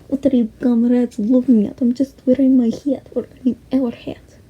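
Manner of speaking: a jokey Russian comrade; Russian accent. Retold or imitated. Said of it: "I spoke in a Russian accent".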